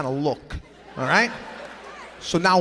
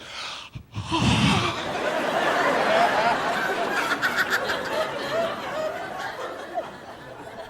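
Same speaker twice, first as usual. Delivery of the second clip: high, breathy delighted gasp; mock thrilled girlfriend squeal; excited gasp. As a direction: gasp like she sees the ring coming. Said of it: "She gets excited".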